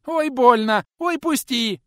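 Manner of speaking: put-on high, loud squealing boy; boy shrieking in the teacher's grip; piercing squeal. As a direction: squeal in pain. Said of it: "пронзительно верещал малой".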